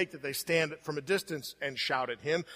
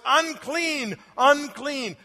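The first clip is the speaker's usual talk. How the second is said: high, loud call of Unclean, unclean; shouting unclean; 7 semitones higher, 6 dB louder, much slower than usual. Retold or imitated. A leper warning the townspeople, in a raised mock shout. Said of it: "shout at the top of your voice".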